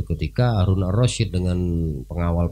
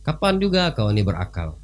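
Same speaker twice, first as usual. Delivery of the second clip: mocking king; 9 semitones higher than usual. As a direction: tease him as a madman. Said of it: "kata Harun Ar-Rasyid". (ejekan raja yang tinggi)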